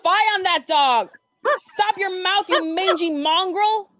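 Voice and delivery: loud scolding at a mangy dog; angry scolding. Acted. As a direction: chase the mongrel off with a loud rebuke.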